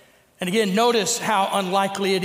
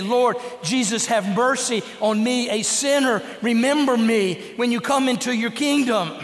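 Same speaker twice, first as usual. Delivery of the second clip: earnest prayer; 3 semitones higher than usual. Retold or imitated. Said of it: "that earnest prayer".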